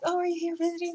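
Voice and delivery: high-pitched surprised question; surprised greeting. Retold or imitated. Asking the returning friend if she's visiting, high surprised greeting. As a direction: act out a surprised hello, pitched well up. Greets coworker back from away.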